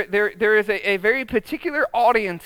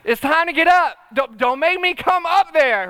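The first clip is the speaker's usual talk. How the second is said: mock yell upstairs; 3 semitones higher than usual. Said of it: "where I yell upstairs".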